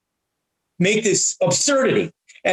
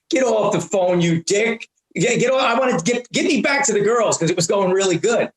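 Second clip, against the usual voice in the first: frustrated aside; 3 semitones higher than usual. Retold or imitated. Caller tells himself to get the guy off the line, frustrated shouts. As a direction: snap at him, half to yourself. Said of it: "losing Saul and going into Johnny Brennan".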